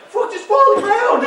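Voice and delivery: very high, loud shout; hammed-up desperate holler; exasperated yell. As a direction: scream it in mock exasperation.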